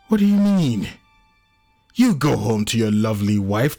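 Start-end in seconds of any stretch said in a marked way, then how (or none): 0.1-0.9 high-pitched anguished challenge; angry outburst. Acted. John challenges Anno's words of hope, angry. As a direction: burst out, pitch leaping up.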